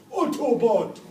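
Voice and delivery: loud excited shout of one word; shouted Autobot. Pretend. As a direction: yell it like a thrilled fan. Imagined Sahara local shouting.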